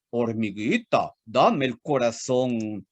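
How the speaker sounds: put-on old ox voice. Old bachelor ox courting.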